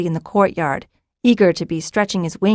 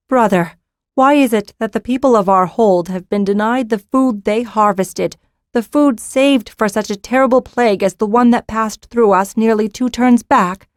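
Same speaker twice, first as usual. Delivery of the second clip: raised, pressing demand; stern accusation; 3 semitones higher, 3 dB louder than usual. Acted. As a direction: confront him, voice rising. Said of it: "said defiantly".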